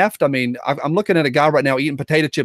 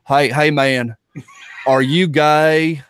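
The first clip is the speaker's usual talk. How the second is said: mimicked nosy question; much slower than usual.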